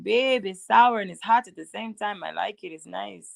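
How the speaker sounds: lightly imitated Nigerian accent; mock Nigerian accent, playful; Nori's Nigerian accent. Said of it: "he always get mad when I do his voice".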